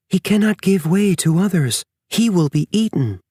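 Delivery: mother bear fearing for her wolf pup; worried mother bear. A narrator's reading. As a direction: fret over the pup's survival. Bear voiced, worrying about pup.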